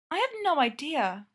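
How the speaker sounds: a little irritable; clipped with mild annoyance. Acted. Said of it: "a little irritably".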